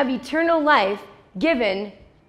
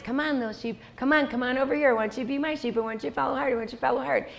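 gentle calling; 2 semitones higher, 5 dB quieter, much faster than usual. Acted. Jesus voiced calling his sheep.

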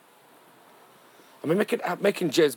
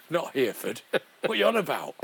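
mock Sheffield lad; 5 semitones higher than usual. Sean Bean snapping at De Niro, exasperated. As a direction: correct the star in frustration. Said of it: "He's standing there thinking".

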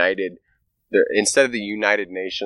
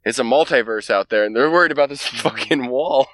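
higher, amused alien; mock alien voice; 6 semitones higher than usual. Alien scoffing at humans over the wall, higher voice. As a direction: scoff at the tiny worries. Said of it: "they're like".

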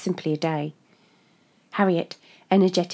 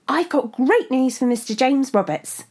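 chirpy voice; 7 semitones higher, 6 dB louder than usual. Acted. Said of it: "unbearably chirpy".

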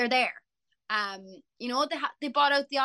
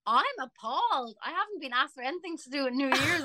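mock indignation; 4 semitones higher than usual. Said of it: "I was like".

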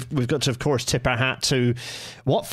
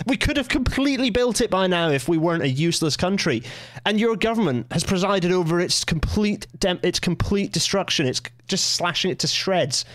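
raised pitch, exasperated complaint; frustrated rant; 5 semitones higher than usual. Real, not acted. Host berating government over cut rail project, exasperated. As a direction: rant at the minister in real frustration, pitch easing down. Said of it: "that level of frustration".

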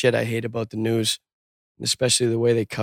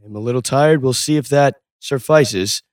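mock newscaster; 4 dB louder than usual. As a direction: drag it out like a pompous anchor. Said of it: "do they talk like that in fucking normal conversation".

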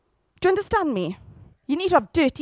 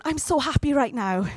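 mock forced happiness. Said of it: "walk around with a grin on going".

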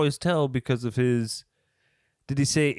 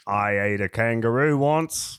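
put-on Australian accent. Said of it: "on my way down under".

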